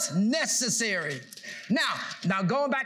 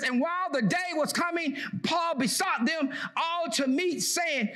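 declaiming King James verses to the church; scripture reading; 2 semitones higher than usual. Acted. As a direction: read it out like a preacher. Reading scripture aloud in preaching.

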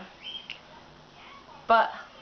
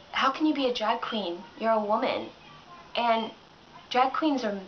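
a hint of a hesitant, puzzled critic, softer; confused critic; 4 semitones lower, 4 dB quieter than usual. Quoting the confused critic of her drag video, hesitant. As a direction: play the confused, uneasy objector. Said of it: "This is what they said".

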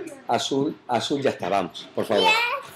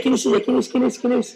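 playful quiz; 11 semitones higher than usual. Real, not acted. Pregunta juguetona a la niña. (madre pregunta a su hija, aguda y juguetona)

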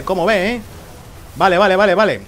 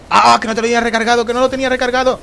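frustrated outburst; 7 semitones higher, 4 dB louder, faster than usual. Real, not acted.

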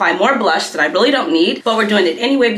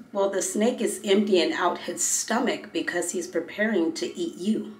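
ominous hush; 6 dB quieter than usual. Retold or imitated. Doctor's punchline in retold story.

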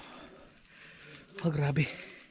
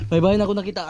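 "May bahay na ako nakita" said again a bit louder so his friend hears; louder repeat for a friend who missed it; 3 dB louder, much faster than usual. Real, not acted. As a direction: call it out again so he catches it.

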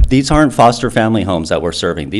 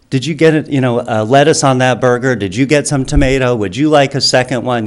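higher-pitched, mildly doting volunteer voice; gently acted fussing over a kid, pitched up; caring volunteer; 7 semitones higher than usual. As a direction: play an attentive helper, voice lifted. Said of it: "that type of care".

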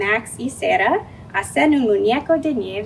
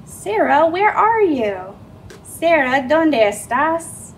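calling out; 4 semitones higher, 4 dB louder, slower than usual. Acted. Searching for hiding sister.

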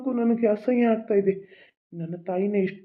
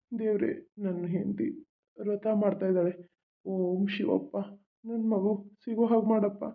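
hushed prayer; 2 semitones lower, 6 dB quieter than usual. Acted.

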